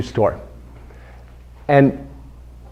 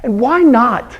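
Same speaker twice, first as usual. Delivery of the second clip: laughing; 8 semitones higher, slower than usual. Real, not acted. Speaker laughs at anecdote.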